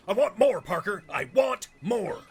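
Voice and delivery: demanding editor. Acted. Editor demanding more photos.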